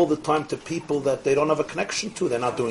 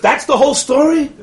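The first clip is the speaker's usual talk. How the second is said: incredulous laugh; 11 semitones higher, 8 dB louder than usual. Retold or imitated. Organizer laughing in disbelief.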